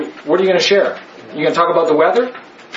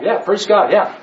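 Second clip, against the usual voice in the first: normal talking voice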